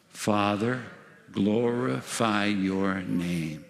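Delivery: very slow communal prayer; solemn prayer. Shown as a demonstration. Preacher leading the congregation in unison prayer, slow and solemn. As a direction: stretch every word so all can join.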